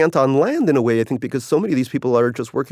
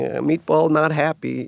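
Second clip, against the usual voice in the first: put-on Russian accent; 3 semitones higher, slower than usual. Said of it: "Maybe I should have used, like, a Russian accent".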